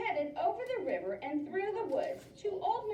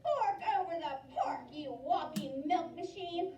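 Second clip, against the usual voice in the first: witch screaming; 4 semitones higher than usual. Acted. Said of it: "screamed Gritch".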